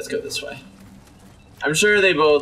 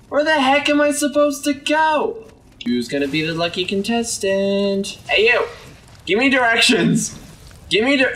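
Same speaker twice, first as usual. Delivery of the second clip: demanding yell; 8 semitones higher than usual. Acted. Yelling at monsters for directions.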